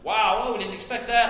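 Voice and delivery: quick mock-startled exclamation; preacher mimicking surprised soldiers, a touch of mock surprise. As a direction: rattle it off like caught-off-guard soldiers, lightly. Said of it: "This doesn't mean that they were startled".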